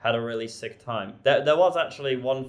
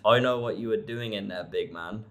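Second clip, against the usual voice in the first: put-on African accent. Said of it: "in a very thick African accent".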